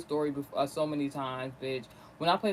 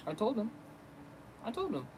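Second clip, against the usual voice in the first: softer, higher private told-you-so; saying to oneself; 4 semitones higher, 7 dB quieter than usual. Retold or imitated. Daughter saying told-you-so only to herself, softly. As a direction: keep it small, as if only thinking it. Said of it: "I'm just saying to myself".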